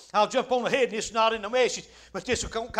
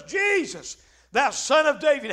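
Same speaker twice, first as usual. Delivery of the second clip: imitated beggar's cry, pitched up at the start. Preacher as blind Bartimaeus calling Jesus past the crowd, crying out. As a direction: call out to be heard over a crowd. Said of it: "he cries out and says".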